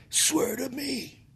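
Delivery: very slow vigilante impression; Batman. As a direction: draw it out like a menacing superhero. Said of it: "Mister Batman".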